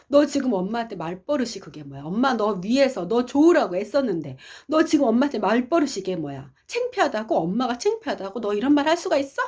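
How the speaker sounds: indignant retold maternal scolding; appalled mother. Mother scolding her daughter for talking back, appalled. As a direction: scold in disbelief, pitch climbing as you go. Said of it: "엄마 너무나 기가 막혀서".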